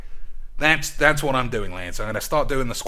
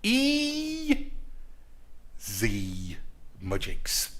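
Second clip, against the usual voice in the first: mock squeaky sign-off; squeaky catchphrase; 3 semitones lower, 8 dB quieter, much slower than usual. Catchphrase repeated.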